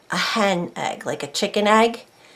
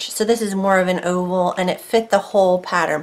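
talking with a numb mouth; numb from the dentist. Real, not acted. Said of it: "so my mouth is a little numb".

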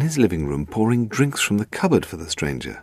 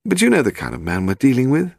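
higher-pitched, heated protest; 7 semitones higher than usual. A narrator's reading. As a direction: object with heat, as a worried wife. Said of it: "Steve said heatedly".

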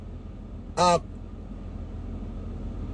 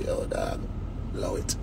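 mimicked hype-up; 13 dB quieter than usual. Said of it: "give him a highlight and say".

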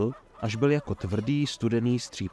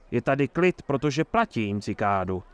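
sly chuckle. Acted. Mayor boasts to Geralt about paying Cicada, sly chuckle. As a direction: chuckle slyly while you boast. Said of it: "zachechtal se mazaně Herbold".

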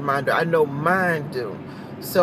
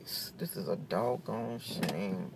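slow, drawn-out mock despair; half-joking slow lament; 5 semitones higher, 8 dB quieter, much slower than usual. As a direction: drag out the shame like a sad sermon. Mock lament over eaten candies.

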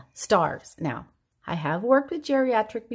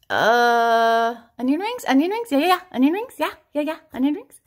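put-on much higher, louder wavering old man; dithering old dad; 5 semitones higher, 6 dB louder, faster than usual. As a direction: hem and haw like the father unsure. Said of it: "This is my dad".

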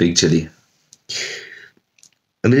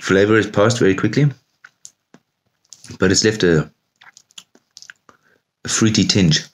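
talking with chili in mouth; mouth full of hot food; 4 semitones higher than usual. Real, not acted. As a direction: speak around a burning mouthful. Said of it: "my mouth is on fire right now".

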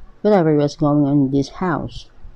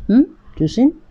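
higher, louder mocking voice; taunting drunk father; 7 semitones higher, 4 dB louder than usual. A narrator's reading. Drunk father taunting his daughter Susan, higher and louder. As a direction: sneer her name up high.

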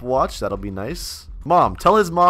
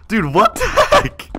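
high laughing disbelief; 3 dB louder than usual. Real, not acted. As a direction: laugh it out in shock. Laughing shock.

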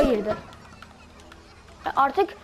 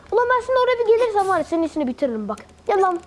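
threat; 5 semitones higher, much faster than usual. Real, not acted. Threatening enemy.

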